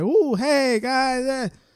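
very high, forced perky, fake bubbly voice. Speaker showing how they would sound trying to talk energetically: fake energetic bubbly voice. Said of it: "Me trying to speak energetically".

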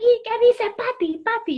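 very high, loud, slow, drawn-out full-throated holler. Retelling a line from a stage show: retelling a full-throated shout. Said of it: "A grito pelado".

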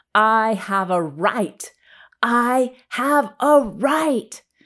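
repeated shrill, loud, high-pitched yelling. Retelling a handcuffed man walking in between two cops, imitating someone screaming. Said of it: "he's screaming".

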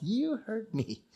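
put-on very soft, hushed, high childlike voice. Retelling what she says to them, the speaker imitates her childlike softness. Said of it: "like a child almost".

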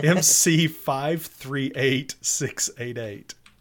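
very slow, slowly spelled out. Speaker reads out an ID slowly so someone can type it, very slow. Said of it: "I'm saying it really slowly so Daryl can type it".

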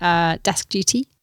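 ordinary talk, nothing marked

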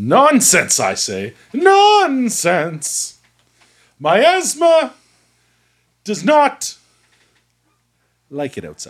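theatrical put-on dramatic character voice. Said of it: "can you talk normal, please?".

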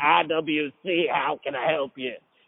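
put-on raspy, gravelly voice with a Southern accent. Imitating chain-smoking southern staff answering the phone, raspy southern voice. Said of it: "they had really raspy voices and they were from the South and it'd be like".

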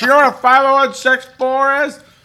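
mock yell. Retelling a woman yelling to another woman in the back, imitating someone yelling. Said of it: "Like yelling to the woman in the back".

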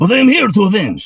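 very high, loud cat voice with Spanish accent. Showing off a voice he says the ladies love, the speaker does Puss in Boots. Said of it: "You need to hear my Puss in Boots".

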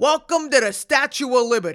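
ridiculous, very loud, high, cartoonish New York accent. Describing a movie's tour guide ranger, in a ridiculous, cartoonish new york accent. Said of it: "the most ridiculous, cartoonish New York accent".

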